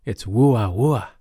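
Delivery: spoken imitation of a French "woo-ah" bark; French dog bark. Shown as a demonstration. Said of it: "in French".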